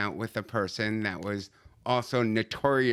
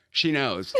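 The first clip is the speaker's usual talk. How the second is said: laughing quote. Retold or imitated. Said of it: "she said".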